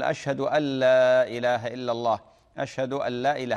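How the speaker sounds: أن said light and quick before لا, no doubled n; "أشهد أن لا إله" with a single short n; light an, no doubling. Shown as a demonstration. Demonstrating the correct call to prayer to the caller, light أن. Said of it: "هكذا".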